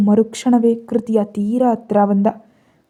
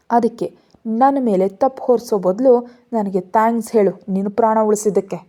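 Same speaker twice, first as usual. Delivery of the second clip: firm, irritated rebuttal, a little louder; angry; 4 dB louder than usual. Acted. Rana denies blame and demands thanks, irritated. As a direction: lecture her, annoyed, as if she owes thanks. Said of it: "ಕೋಪದಿಂದ ಅಂದ".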